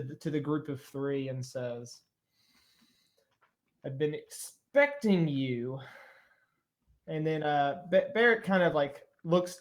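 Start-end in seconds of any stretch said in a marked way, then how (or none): 3.8-5.8 slow, drawn-out dragon greeting. Acted. Dragon addressing the group of three, slow dragon voice. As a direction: draw it out like a waiting dragon.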